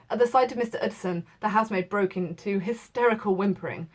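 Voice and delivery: measured classroom read-aloud; steady literary narration; story reading. A narrator's reading. Teacher reads the novel aloud.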